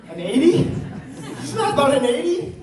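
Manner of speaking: half-laughing yell as dad about an eighty; dad scolding sister over an eighty, mock yell. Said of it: "my dad's yelling at my sister".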